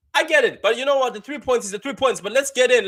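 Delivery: high, loud emphatic push; fired up. Real, not acted. Host to chat insisting points matter, fired up. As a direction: brush it off with energy.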